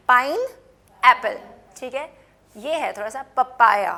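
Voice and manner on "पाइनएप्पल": slow demo. Shown as a demonstration. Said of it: "ये तो इतना मुश्किल नहीं है".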